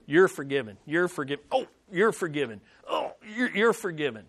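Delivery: hammed-up weepy "you're forgiven"; mock sob through the pardon; mock tearful pardon. Stephen imagined weeping pardons at his stoners, hammed-up crying. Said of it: "he doesn't shout to him".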